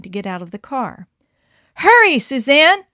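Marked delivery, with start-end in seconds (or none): 1.7-2.8 high, loud commanding call; urgent order. A narrator's reading. Mother to daughter in sinking car, loud order. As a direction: hurry her out now. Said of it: "ordered her mother".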